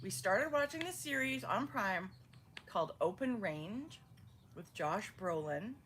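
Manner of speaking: talking around ice; words round a mouthful of ice. Real, not acted. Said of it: "What are you eating?".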